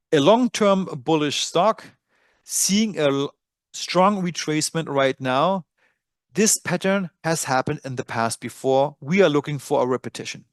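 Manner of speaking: dictation voice. Shown as a demonstration. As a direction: spell it out clearly for voice typing. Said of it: "I'm gonna say, using my dictation feature".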